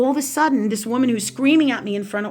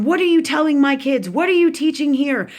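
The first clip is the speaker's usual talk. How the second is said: higher-pitched, accusing questions; imitating an angry aunt; 4 semitones higher, 4 dB louder than usual. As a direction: demand answers like an outraged relative, retold. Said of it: "she starts yelling at me".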